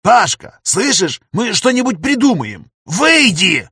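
high, loud frantic plea to get out; urgent shout. A narrator's reading. Professor to his friend, frantic loud begging to exit. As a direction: shout at him to leave the game now. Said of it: "на последних словах повысил голос".

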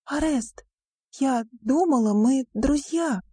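betrayed by her friend; a lightly voiced hurt girl. A narrator's reading. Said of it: "прошептала Риона".

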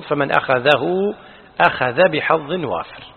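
slow, careful أخذه, then أخذ without hā'; corrected wording. Shown as a demonstration. Teacher restating the preserved wording, slow demonstration of أخذ without hā'. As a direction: spell out by voice that the second أخذ ends without hā'. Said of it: "بدونها، هذا هو المحفوظ".

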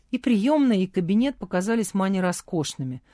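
ordinary delivery

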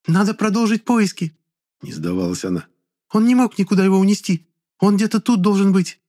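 put-on very high, thin girl's voice; shrill girl voice. A narrator's reading. Charlotte's voiced character.

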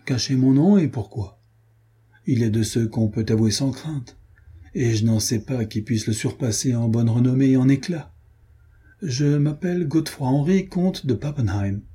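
a hint of a haughty German count. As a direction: announce your name with lofty pride. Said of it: "d'un air hautain".

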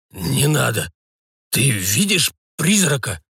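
slow, fearful question; whisper-worried old man, slowed; scared old man. A narrator's reading.

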